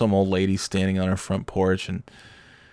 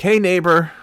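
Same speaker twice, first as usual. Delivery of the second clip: friendly greeting; 10 semitones higher, 5 dB louder than usual. Retold or imitated. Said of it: "smiled at me and waved".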